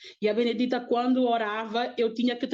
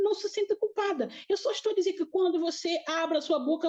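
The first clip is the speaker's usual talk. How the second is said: higher, stern retold guard voice; mild retold anger; 6 semitones higher than usual. Guard telling the prisoner off, higher and stern. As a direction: imitate the guard scolding with authority. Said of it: "falava assim com autoridade, com raiva".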